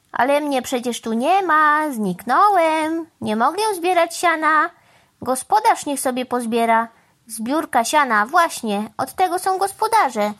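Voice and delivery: a hint of a huffy shirker; evasive crow. Crow hiding under hay tells the cow it isn't his job, evasive.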